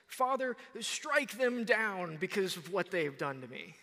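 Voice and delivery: mock the wrong words with some heat; a lightly voiced vengeful cry; vengeful plea.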